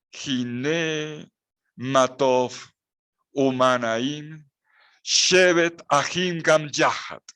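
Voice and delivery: slow, careful Hebrew recitation of "Hine matov umanaim shevet ahim gam yahat"; Hebrew reading. Shown as a demonstration. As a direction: read each Hebrew word out slowly and clearly. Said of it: "Así dice el texto hebreo". (lectura lenta del hebreo "Hine matov umanaim")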